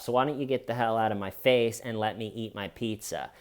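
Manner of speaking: imagined calm denial; dismissive brush-off. Retold or imitated. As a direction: wave it off like it's nothing. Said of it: "if the Pfizer guy would have sat there and said".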